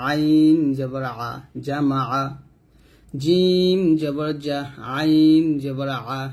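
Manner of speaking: slow, drawn-out letter names, short syllables after; measured classroom spelling chant; spelling recitation. Shown as a demonstration. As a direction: stretch each letter name, then join the syllables.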